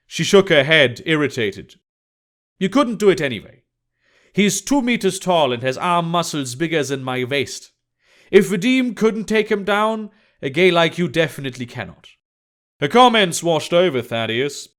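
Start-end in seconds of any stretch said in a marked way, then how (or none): 2.6-12.1 lightly voiced scornful woman; dismissive Emma. Emma tells Thaddeus he cannot win, mildly scornful. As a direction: put him down in a slightly raised character voice.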